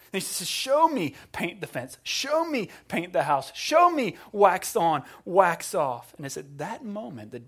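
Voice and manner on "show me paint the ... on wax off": commanding sensei. Retold or imitated. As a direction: call out each drill as a stern teacher. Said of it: "He shouts at him".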